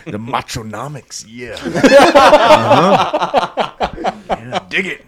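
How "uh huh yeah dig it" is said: Macho Man. Acted. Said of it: "The Macho Man understands economics".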